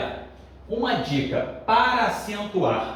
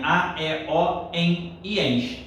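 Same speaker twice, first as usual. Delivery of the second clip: slow drilled rule; much slower than usual. Shown as a demonstration. Teacher drilling the rule to memorize, slowly.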